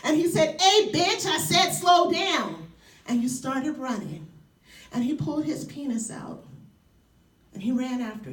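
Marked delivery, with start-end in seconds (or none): 0.6-2.7 louder, slow menacing demand; harsh retold yell. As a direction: bark it slowly like a threatening stranger. Man yelling after her.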